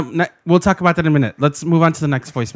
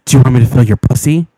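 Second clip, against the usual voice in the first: low, louder macho come-on; straight guy impression; 5 semitones lower, 6 dB louder, faster than usual. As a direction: play a crude straight man, pitched down. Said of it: "this is something he would say".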